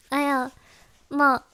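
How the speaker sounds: ordinary talk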